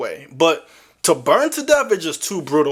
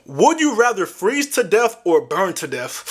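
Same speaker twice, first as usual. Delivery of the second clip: ordinary talk, nothing marked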